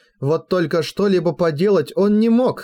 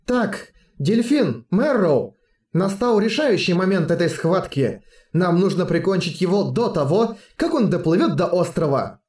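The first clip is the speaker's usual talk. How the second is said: put-on commanding girl; 3 semitones higher than usual. Leader gives battle orders.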